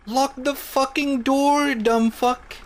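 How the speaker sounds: high, loud, drawn-out yell; hammed-up rage; slow furious shout. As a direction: spit each word slowly at him. Yelling insult at coworker.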